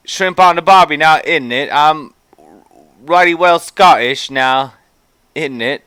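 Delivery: hammy fake Scottish, badly mixed with Aussie; mock Scottish accent. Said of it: "That's my Scottish ac-, impression".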